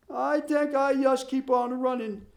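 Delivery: put-on high, earnest Swedish accent. Ole explains, running.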